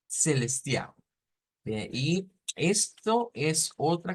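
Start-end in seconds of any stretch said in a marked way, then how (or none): 0.1-0.9 "celestial" ending in a U glide, no L; final L as U. Shown as a demonstration. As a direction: model "celestial" as celes-tiau. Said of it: "se cambia la L por una U".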